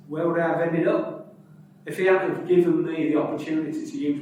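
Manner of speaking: put-on broad Hull accent, quoting a player. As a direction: Hull accent, old rugby player recalling his roots. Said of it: "I should revert to my true Hull accent here".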